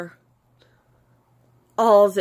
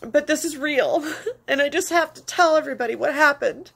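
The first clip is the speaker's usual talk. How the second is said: tearful; 6 semitones higher than usual. Real, not acted. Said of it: "sorry for the ugly crying".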